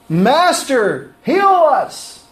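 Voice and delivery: high, pleading cry of Master, heal us; wrong plea. Shown as a demonstration. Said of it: "That's not what they said".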